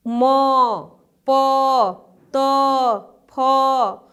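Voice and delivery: "म, प, त, फ" one by one, each ending in अ; अक्षर का उच्चारण. Shown as a demonstration. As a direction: sound out "म, प, त, फ" separately, letting the final vowel ring. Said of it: "उसके अंत में अ". ("म, प, त, फ" अलग-अलग, अंत में अ सुनाते हुए)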